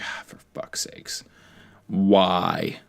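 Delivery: hushed, drawn-out groan of dismay; mock exasperation. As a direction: act out weary disbelief under your breath. Acts out exasperation at British accents.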